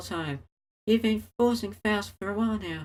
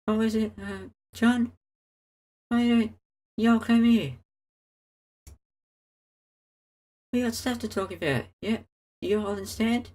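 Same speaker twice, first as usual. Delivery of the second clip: put-on a light, playful hillbilly accent. Luz teasing John in a mild hillbilly accent. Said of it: "communicate with me in some odd hillbilly accent".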